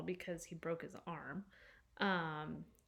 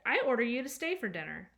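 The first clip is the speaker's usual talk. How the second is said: bossy, louder command; very improper voice; 5 semitones higher, 7 dB louder than usual. Acted. Girl ordering the robot to stay, bossy and loud. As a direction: boss the robot around like a little tyrant. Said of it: "In a very improper voice".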